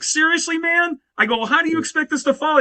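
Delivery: high, quick incredulous protest; mock disbelief. Singer retelling how he pushed back at the stage handoff, high and disbelieving. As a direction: rattle it off like you've been stitched up. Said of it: "And I'm like".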